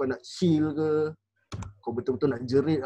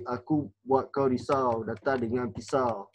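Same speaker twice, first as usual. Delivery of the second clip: slow menacing intonation; 3 semitones lower, slower than usual. Shown as a demonstration. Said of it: "Intonasi satu".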